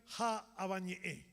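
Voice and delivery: slow, measured Guaraní verse; verse recitation. Acted. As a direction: recite it with drawn-out vowels.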